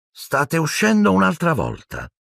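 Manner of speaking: put-on high boyish accusation; accusing boy. A narrator's reading. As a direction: pipe it up high, accusing them. Neville accuses his friends. (ragazzino accusatorio, voce acuta)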